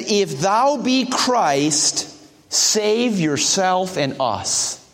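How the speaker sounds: slow, deliberate scripture quote; quoting the thief. Retold or imitated. Preacher reads the thief's taunt to the congregation, slowly. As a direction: read out the mocking thief's words slowly. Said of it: "He said".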